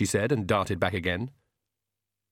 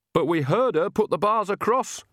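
wailed; 10 semitones higher than usual. A narrator's reading. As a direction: cry out in dismay. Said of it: "wailed Nanny".

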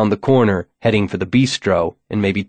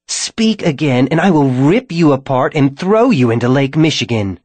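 rasping vampire threat; 4 semitones higher than usual. A narrator's reading. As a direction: rasp each threat like a corpse. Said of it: "Drulinda rasped".

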